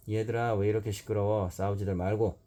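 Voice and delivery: 크게 아이들을 부르는 선생님; 교실을 정리하듯 큰형처럼; teacher calling out. Acted. 선생님이 아이들을 말림. (모찌 선생님이 아이들을 말리며)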